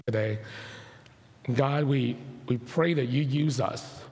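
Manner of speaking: measured public prayer with long pauses; solemn prayer. Real, not acted. Pastor praying for neighbors after a tragedy, solemn prayer. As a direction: pray haltingly, pausing between phrases.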